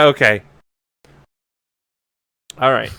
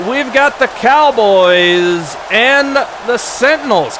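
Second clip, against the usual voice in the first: sports announcer; 8 semitones higher than usual. Acted. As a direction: open the show like a TV sportscaster. Sportscaster opening the broadcast.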